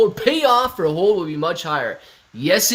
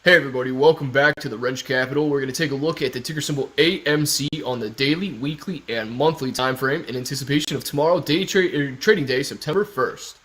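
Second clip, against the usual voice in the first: lower, deeper take on the channel intro; 3 semitones lower than usual. Shown as a demonstration. Viewer requests the channel intro redone in a deep voice. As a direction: drop the voice down for the intro. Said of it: "in a deep voice, though".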